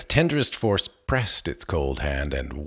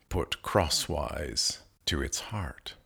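whisper; 4 semitones lower, 6 dB quieter than usual. A narrator's reading. Reverent hush at the dead.

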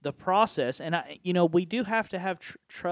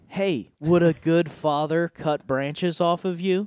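louder, slow needling question; lightly voiced enemy; 6 dB louder, slower than usual. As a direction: plant doubt slowly as the enemy. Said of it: "the enemy's going".

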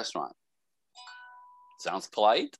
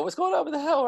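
mock surprise. Host voicing himself to frustrated friend.

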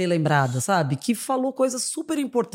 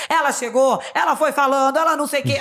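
lightly mimicked socialite, a bit raised; Narcisa impression; 5 semitones higher than usual. Retelling Narcisa on TV, raised mimicking voice. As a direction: retell it in her excitable manner. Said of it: "aquela Narcisa".

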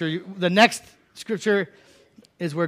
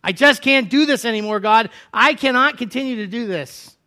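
Elijah despairing; 5 semitones higher, 6 dB louder than usual. Acted. Elijah giving up before God, high anguished cry. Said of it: "is what I'm hearing".

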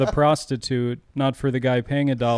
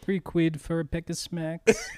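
higher, slow mock-British voice; attempted British accent; 4 semitones higher, 4 dB quieter than usual. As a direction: try out a rough British accent. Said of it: "I don't know how to do U K".

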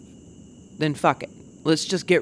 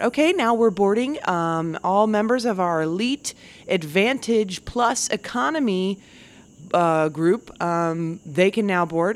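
gate agent announcement; 3 semitones higher than usual. Retold or imitated. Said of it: "you're just like".

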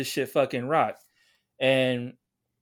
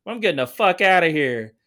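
put-on old lady storming off; 2 semitones higher, 5 dB louder than usual. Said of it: "She was like".

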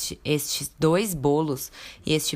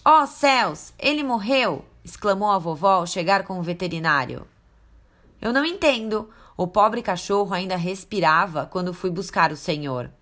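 upset grandma; 2 semitones higher than usual. Acted. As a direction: wail over the poor dog. Grandma finds the wolf.

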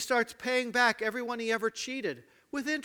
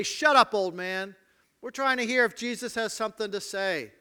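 put-on sharp, loud snap at an old man; rebuking shout; 2 semitones higher, 5 dB louder than usual. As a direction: shut him up impatiently. Crowd rebuking the beggar.

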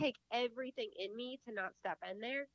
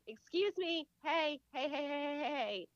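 higher-pitched, mock scolding hey-hey-hey; indignant interjection; 5 semitones higher than usual. Mother itching to step in at the pool, indignant. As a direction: cut in to call out rudeness.

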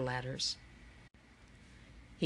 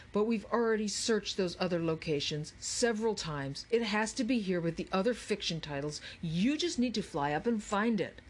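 higher, mildly exasperated boss; impatient Charles; 3 semitones higher than usual. Acted. Charles orders Andrew to fly up for the book, mildly exasperated. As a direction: push a stalling partner, a touch impatient.

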